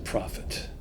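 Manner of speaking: breathy whispered accusation; hushed whisper. A narrator's reading. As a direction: whisper it in dread. Narrator confronts the raven.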